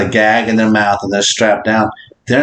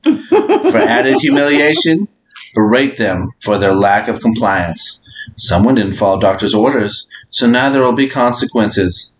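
lower, measured read-aloud voice; 4 semitones lower than usual. Acted. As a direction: read out instructions evenly and deliberately. Reads out a prompt.

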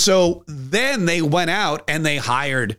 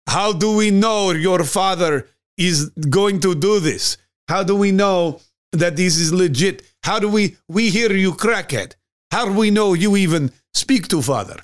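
skeptical foreign businessmen; 4 semitones higher than usual. Retold or imitated. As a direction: question him like a suspicious investor, slightly higher. Foreign businessmen doubting Hunter.

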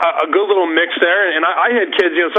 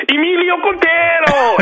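put-on Emilio Quintero said slow and much higher with a rich Spanish accent; rolled Spanish name; 11 semitones higher, slower than usual. High school dean reading the detention list, hamming up Emilio Quintero in a Spanish accent. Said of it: "he would play into, uh, the names".

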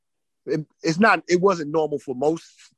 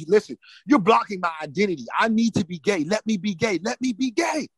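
high, pleading cry climbing in pitch; retold anguished, high-pitched plea; tearful yelling; 7 semitones higher than usual. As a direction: beg desperately, rising higher each phrase. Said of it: "language of my tears and my yelling and screaming".

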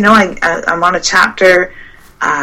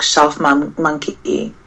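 tripping over the title; stuttering; 5 dB quieter, much slower than usual. Real, not acted. Guest fumbling a book title for the interviewer, stuttering. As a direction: stumble on the word and restart it. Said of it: "Sorry, I keep stuttering here".

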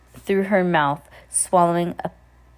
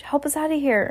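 asking; 9 semitones higher than usual. A narrator's reading. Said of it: "Ernie asked".

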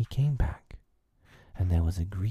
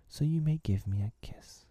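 put-on higher, softened girl's voice, giving in; relenting; 8 semitones higher than usual. A narrator's reading. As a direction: relent gently, pitched up. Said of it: "she said, relenting".

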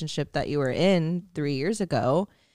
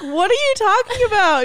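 much higher and louder, squealing in disbelief; replaying her stunned reaction on FaceTime; excited disbelief; 7 dB louder than usual. Friend retells hearing the big news, high and loud, excited.

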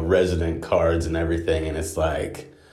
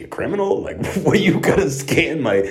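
incredulous high disbelief; 8 semitones higher, 3 dB louder than usual. Retold or imitated. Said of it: "I'm like".

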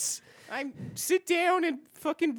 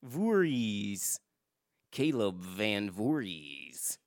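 put-on Indian accent; 3 dB quieter, slower than usual. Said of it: "are you doing an Indian accent now".

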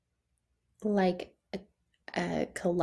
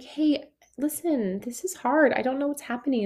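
pleading client; 6 semitones higher than usual. Pretend. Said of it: "be like".

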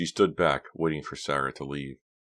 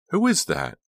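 a sudden, higher gasp of a question; shocked question; 8 semitones higher, 5 dB louder than usual. Acted. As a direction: catch her off guard. Shocked at window.

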